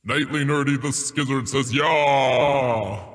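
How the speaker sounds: announcer voice. Acted. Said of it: "announcer voice".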